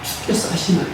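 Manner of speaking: soft, hushed reply as Peter. Acted. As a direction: answer timidly, almost under your breath. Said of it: "그래야 되는데 뭐라고?". (자신 없이 작게 속삭이듯)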